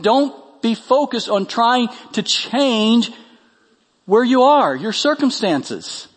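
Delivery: high, loud rhetorical question and answer; forceful preaching. Acted. Preacher voicing Paul's advice on circumstances, forceful. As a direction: fire off each question, then dismiss it emphatically.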